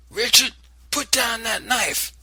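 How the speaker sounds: high, loud command; shout. Acted. Grandmother ordering the boy, loud shout. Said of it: "Granny shouted".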